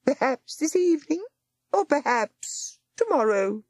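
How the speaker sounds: high, cold voice of a nurse barring the door; stern nurse. Acted. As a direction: refuse like a gatekeeper. Nurse stalling the visitor.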